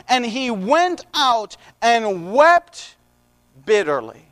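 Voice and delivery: slow, drawn-out Bible reading; scripture reading. A narrator's reading. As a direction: read the verse deliberately, stretching the quoted words. Reads scripture aloud.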